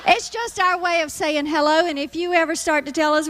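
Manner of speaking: ordinary talk, nothing marked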